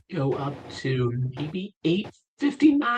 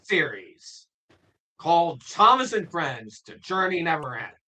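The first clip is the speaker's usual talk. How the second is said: trailer voice; 6 semitones higher than usual. Shown as a demonstration. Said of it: "That's pretty good".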